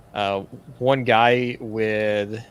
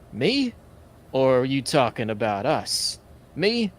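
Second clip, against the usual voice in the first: mock-innocent gang leader; 2 semitones higher than usual. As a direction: feign surprise at being addressed. Game master answers as gang leader.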